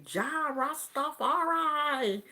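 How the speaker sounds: high, drawn-out Jamaican exclamation; Jamaican accent. Retold or imitated. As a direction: imitate a jovial Jamaican friend's slow proclamation. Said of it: "he had the Jamaican accent".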